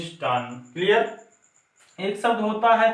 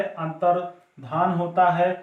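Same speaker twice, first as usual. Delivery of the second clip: slow careful; slower than usual. Shown as a demonstration. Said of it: "अंतर्ध्यान नहीं".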